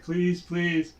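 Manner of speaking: pleading ghast. Acted. Game master voices sobbing ghast begging the player, lightly pleading. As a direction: beg through hands over the face. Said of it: "got her hand, her face in her hands".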